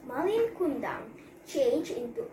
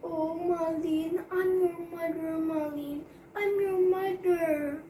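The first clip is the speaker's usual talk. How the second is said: pleading cry; 4 semitones higher than usual. Acted. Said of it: "cried the mother".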